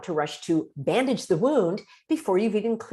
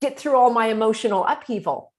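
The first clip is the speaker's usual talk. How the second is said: indignant; 4 semitones higher, 4 dB louder than usual. Retold or imitated. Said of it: "upset friend retorts".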